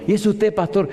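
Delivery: high, impressed imitation; changed tone. Caller realising she has the pastor, changed tone. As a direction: mimic her suddenly deferential surprise. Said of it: "ya cambió el tono".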